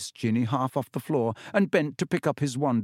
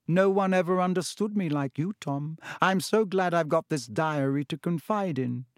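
higher, mock girlish imitation; mocking Ginny; 5 semitones higher than usual. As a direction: mimic a lovesick girl with scorn. Riddle quotes Ginny's diary words.

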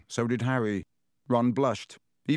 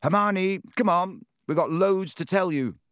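calling out; 7 semitones higher than usual. Acted. Hammering on a stall door.

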